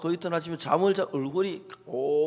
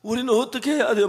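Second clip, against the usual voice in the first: high-pitched mock tearful pleading; higher, insistent retold lament; retold sobbing plea; 6 semitones higher than usual. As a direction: imitate someone crying out for help, quickening at the end. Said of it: "막 그러면 막 우는 거예요".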